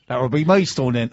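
joking West Country take on Maidstone; playful West Country imitation; mock West Country accent. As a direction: put on a West Country burr.

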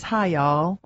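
attempted South Carolina drawl; Southern US accent. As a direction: greet in a put-on Southern accent. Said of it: "the only accent I can do".

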